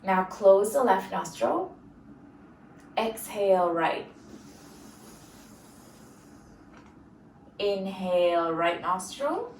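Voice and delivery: measured breathing instruction with long pauses; guided breathing cues. Acted. Yoga teacher leading students through nostril breathing, guided breathing cues. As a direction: pace each cue to the breath.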